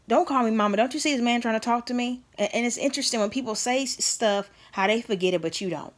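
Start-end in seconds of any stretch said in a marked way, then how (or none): 0.1-2.2 mom's sharp rebuke. Retold or imitated. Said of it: "and she said".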